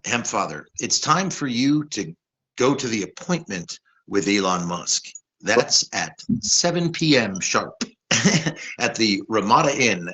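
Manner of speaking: calm, measured AI secretary; modern robot assistant voice. Pretend. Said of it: "Your robot would go".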